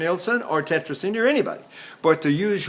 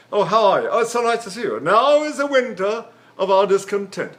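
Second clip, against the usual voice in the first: imitated English stage voice, words in the pharynx; relaxed-mouth English actor; 3 semitones higher, 4 dB louder than usual. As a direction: loosen the mouth and speak as an English Shakespearean. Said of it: "relax your mouth and you keep the words pronounced in the pharynx".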